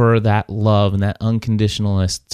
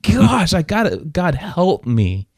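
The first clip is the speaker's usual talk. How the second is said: desperate prayer; 6 semitones higher than usual. Retold or imitated. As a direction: beg God for help, dropping away. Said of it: "I'm like".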